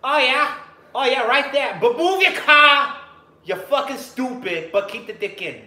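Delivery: loud, high mock sex moans from a woman; moaning woman.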